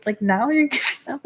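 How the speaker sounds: incredulous question broken by real laughter; laughing disbelief. Real, not acted. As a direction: laugh at how ridiculous it is. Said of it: "I'm laughing 'cause it's like, it's just so ridiculous".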